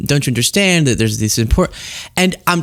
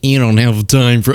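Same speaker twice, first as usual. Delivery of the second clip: Doctor Phil; 4 semitones lower than usual. Retold or imitated. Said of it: "Doctor Phil would do this".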